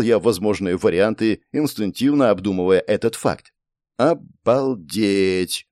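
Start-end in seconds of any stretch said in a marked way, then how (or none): 4.0-5.7 slow, drawn-out amazement; awed exclamation. A narrator's reading. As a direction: stretch it out in wonder. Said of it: "восхищённо произнести".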